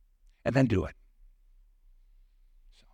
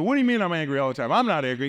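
imitating a yelling boss, higher and fast; indignant mock yell, pitched up; retold angry yelling; 6 semitones higher, 4 dB louder, faster than usual. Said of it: "he was yelling at me".

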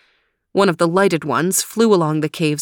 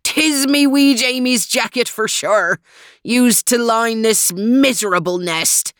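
anguished Scottish brogue, raised and drawn; grieving Scot crying out in misery; howl of misery; 4 semitones higher than usual. A narrator's reading. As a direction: wail it out in a thick Scots voice. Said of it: "let out a howl of misery".

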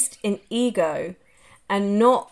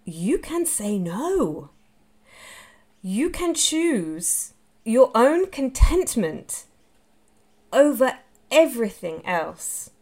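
calm and gentle; 2 semitones higher, slower than usual. Retold or imitated. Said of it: "And she was like".

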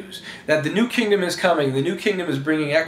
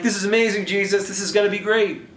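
mildly raised, eager praise; excited followers; 5 semitones higher than usual. Acted. Followers cheering Jesus on, excited. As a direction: gush a little to the leader. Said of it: "you're still excited about it".

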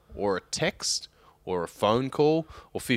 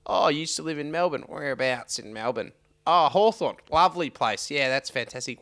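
high, put-on gushing small talk; high comic send-up of a chummy colleague; comical Wayne voice; 6 semitones higher than usual. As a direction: mimic an over-friendly colleague, pitched well up. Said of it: "he's like".

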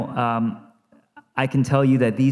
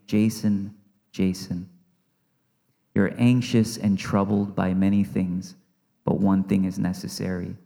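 gentle call; 4 semitones lower, 3 dB quieter than usual. Acted. God speaking gently to pastor.

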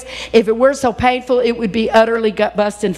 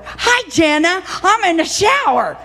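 put-on high bright child voice, much higher; little granddaughter; 8 semitones higher than usual. Grandmother imitating granddaughter calling from the shower, high child voice. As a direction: chirp it like a small girl on the phone. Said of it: "Tegan is standing there under the water going".

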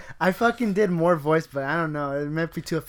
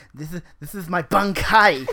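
weeaboo voice. Acted. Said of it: "That's his weeaboo impression".

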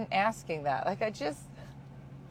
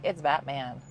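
flat blunt retort; 5 semitones lower than usual. Retold or imitated. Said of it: "that's how she talked to us".

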